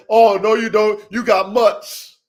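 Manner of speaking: loud, scornful "oh no you don't"; mock dismissive hater. Breeder mocking internet critics who dismiss his dogs, loud and scornful. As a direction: sneer at them like a snob. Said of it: "They're gonna say".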